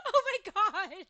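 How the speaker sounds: loud, slow laugh through the words. Real, not acted. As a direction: burst out laughing as you say it. Laughing hard at a chat message.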